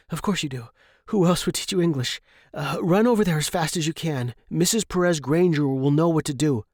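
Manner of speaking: Jeremy sending the gray for help; Jeremy, instructing. Acted. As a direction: send her off with quick urgent orders.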